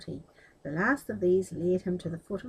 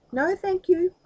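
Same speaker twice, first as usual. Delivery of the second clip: firm refusal; 11 semitones higher, 7 dB louder than usual. Acted. Aladdin refuses the magician.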